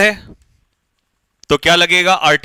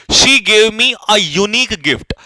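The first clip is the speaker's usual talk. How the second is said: very slow, each word spaced; slow, clear dictation; 2 semitones higher, much slower than usual. Shown as a demonstration. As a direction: dictate the sentence slowly for the class. Teacher dictating an example sentence.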